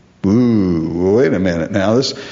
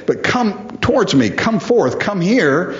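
voiced higher, a gentle but urgent call; Jesus calling out; 5 semitones higher than usual. Preacher as Jesus calling the man with the withered hand, pitched-up urgent call.

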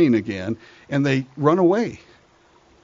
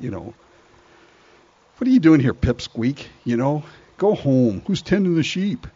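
put-on taunting older brother. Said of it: "And the older brother says".

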